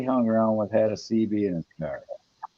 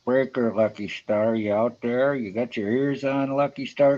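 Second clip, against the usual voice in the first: trucker cb radio. Pretend. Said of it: "my feeble attempt at humor".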